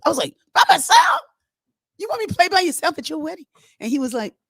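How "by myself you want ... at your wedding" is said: much higher, fast, incredulous; shocked disbelief. Retold or imitated. Refusing the groom's request, high and astonished. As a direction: squeak out the disbelief.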